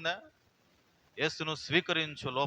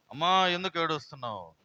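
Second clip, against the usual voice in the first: loud, raised opening call; concerned calling out; 3 semitones higher, 7 dB louder than usual. Acted. Jesus asking the weeping woman, concerned calling out. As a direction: call out to her with a strong voice.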